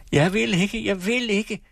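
high, pleading cry; desperate refusal. A narrator's reading. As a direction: refuse like a frightened patient. Patient refusing to be put to bed. (fortvivlet nægtende)

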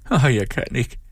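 high, helpless lament; wailing complaint. A narrator's reading. Sick woman falls back on the bed, lamenting. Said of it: "klagede hun".

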